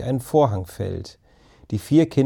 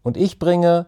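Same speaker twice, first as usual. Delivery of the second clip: mildly theatrical announcement, pitched up at the start; dramatic; 3 semitones higher, slower than usual. A narrator's reading. Ben announces what he brings to the group, dramatic. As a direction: proclaim it with a touch of drama. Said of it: "verkündete Ben dramatisch".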